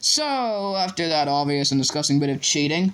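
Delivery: lightly voiced biased commentator; partisan commentary. A narrator's reading. Commentator reporting a foul against his house, mildly indignant. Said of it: "finding it difficult not to take sides".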